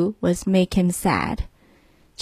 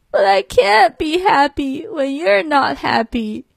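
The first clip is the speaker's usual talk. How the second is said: lamb voice; 4 semitones higher than usual. Acted. Lamb's voice in story.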